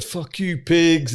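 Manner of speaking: high mock yell at the police; retold crowd yell. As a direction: throw it out like an angry bystander.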